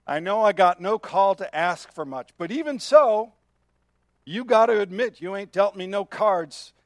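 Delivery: hard-hearted, resentful plea with no real asking; defiant prisoner's prayer. Retold or imitated. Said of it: "half-heartedly prays".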